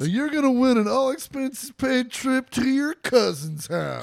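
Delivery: booming game show announcer; booming prize announcer. Pretend. Mock game show prize reveal.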